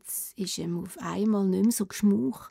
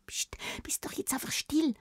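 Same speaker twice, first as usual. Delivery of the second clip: sharp, softer hiss of annoyance; annoyed whisper; 6 semitones higher, 10 dB quieter than usual. Acted. Anna whispering crossly to the frog king. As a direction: hush him, irritated. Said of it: "Sie ist ein bisschen genervt".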